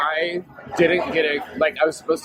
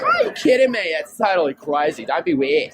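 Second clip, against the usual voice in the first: Australian friend; 3 semitones higher than usual. Retold or imitated. Imitating a friend from Sydney, strong Australian accent. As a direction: do a natural Australian accent, mock disbelief. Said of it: "She sounds more Australian than my".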